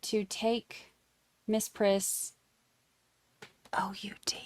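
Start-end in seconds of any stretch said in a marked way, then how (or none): 3.7-4.4 spelled out in a whisper. Real, not acted. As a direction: whisper the letters so the dog won't hear. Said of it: "I have to whisper it 'cause she'll hear me".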